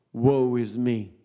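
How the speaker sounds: low, slow mock self-pity; boo-hoo moping. Preacher mimics a sulking congregation, boo-hoo moping. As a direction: drag it out like a put-on pity party. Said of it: "the body's in the boo-hoo mode".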